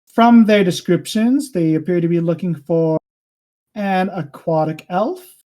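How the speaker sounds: measured royal pronouncement with weighty pauses; king addressing the party. Acted. Voices the king to players.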